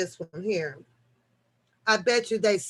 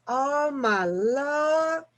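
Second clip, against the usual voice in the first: stunned; 3 semitones higher, much slower than usual. Real, not acted. Reacts to grim murder story.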